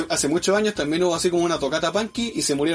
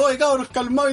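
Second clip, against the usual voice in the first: mock yelling; 6 semitones higher than usual. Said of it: "así como gritando".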